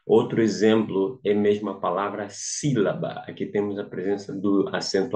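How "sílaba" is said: "sílaba" com SÍ mais forte; maior intensidade na tônica. Shown as a demonstration. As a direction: carregue na primeira sílaba de "sílaba". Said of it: "nós lemos com maior intensidade". (ênfase didática no SÍ de "sílaba")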